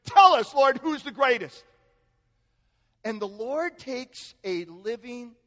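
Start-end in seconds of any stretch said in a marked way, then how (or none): 0.1-1.6 loud, high mock pleading; squabbling disciples. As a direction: demand a ruling like bickering rivals. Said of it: "Can you imagine coming to the Lord saying".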